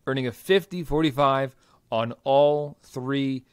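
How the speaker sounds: booming fight-night announcer build-up; ring announcer voice. Acted. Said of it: "I started slipping into my ring announcer voice there".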